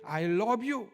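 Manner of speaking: curt-hearted imitation that contradicts the words; coldly. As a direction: say it harshly, as if scolding a dog. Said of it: "좀 매몰차게".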